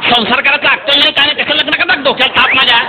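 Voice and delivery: scolding and consoling. Retold or imitated. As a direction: scold her, then tell her to stop crying.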